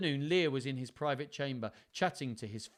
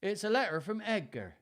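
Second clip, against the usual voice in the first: Edmund; 9 semitones higher, 4 dB louder than usual. A narrator's reading.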